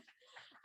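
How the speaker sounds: brief, soft, voiceless chuckle; short laugh. Real, not acted. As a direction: let out a quick quiet laugh after thanking the audience. Thanks audience for applause, laughs.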